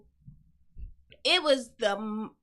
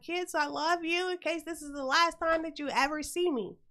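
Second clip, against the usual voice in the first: put-on higher-pitched dramatic goodbye to the kids; mock farewell; 5 semitones higher than usual. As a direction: say it like a half-joking last farewell. Mock last farewell to her kids.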